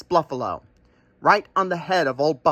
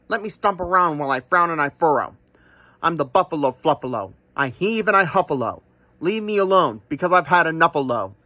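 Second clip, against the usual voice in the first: a lightly voiced huffy buffalo, stomping through his rhyme; grumpy buffalo. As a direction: grumble it out as a cross buffalo.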